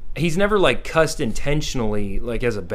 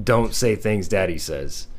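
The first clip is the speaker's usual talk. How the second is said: patient explaining; 3 semitones lower, slower than usual. Retold or imitated. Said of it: "explain to him".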